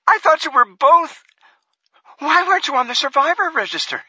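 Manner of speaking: a frightened wife begging him to understand; tearful pleading. Acted. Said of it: "Her words dissolved into tears".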